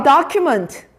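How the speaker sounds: document said slowly, first syllable leaned on; pronunciation demo. Shown as a demonstration. Teacher repeating a hard word for students, careful pronunciation demo. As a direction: carefully model document, stretching it out. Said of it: "한 번 더".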